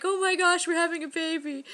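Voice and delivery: high, bright imitation of a thrilled husband; half-mocking his joyful outburst; excited. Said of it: "he got all choked up".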